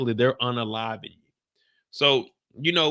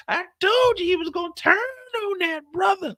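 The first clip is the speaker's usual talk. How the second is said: much higher put-on partner voice, no tears; the speaker's clean version. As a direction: repeat it tidied up, calmer. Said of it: "She said".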